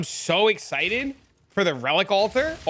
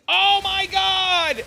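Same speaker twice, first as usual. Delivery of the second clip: mock amazed gasp; 10 semitones higher, 5 dB louder, much slower than usual. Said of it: "they're like".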